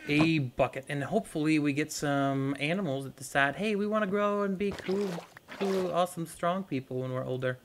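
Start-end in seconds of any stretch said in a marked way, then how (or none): 3.5-7.6 lightly voiced eager animal, starting higher and settling down; a hint of a silly character voice; put-on animal voice. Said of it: "talking in a voice like that".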